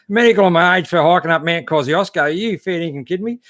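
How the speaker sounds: jokingly incredulous, as if insulted; mock disbelief. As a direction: act stunned at the cheek of it. Mock outraged reply to a cheeky question.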